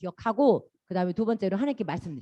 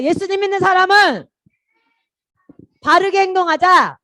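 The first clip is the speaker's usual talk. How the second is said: loud call to repeat; 8 semitones higher, 12 dB louder than usual. Shown as a demonstration. Children's pastor leading kids in a loud repeat-after-me. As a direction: belt it out so the whole room repeats. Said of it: "자, 따라하자".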